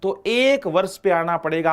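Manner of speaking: slow, deliberate drilling of the rule; slow emphatic teaching. Shown as a demonstration. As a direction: spell out the rule slowly so it sticks. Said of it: "आपके दिमाग में बिठा लो".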